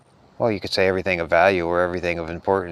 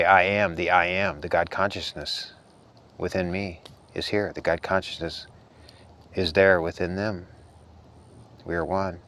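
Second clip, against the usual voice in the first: soft soothing to animals; 4 dB quieter than usual. Shown as a demonstration. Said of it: "talk to him that way".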